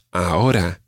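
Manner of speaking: ahora said a-O-ra; stress on second-last syllable. Shown as a demonstration. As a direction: lean on the middle O of ahora. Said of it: "pronounced on the second last syllable".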